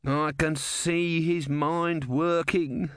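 high, slow, drawn-out wail; narrator's held-back scream; mock scream. A narrator's reading. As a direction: wail it in exasperation without real volume. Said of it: "Om screamed".

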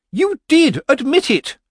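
very high, loud triumphant accusation; shrill as a gull. Acted. Missus Earwig pounces on Granny's words, shrill as a gull. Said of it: "was as shrill as a gull's".

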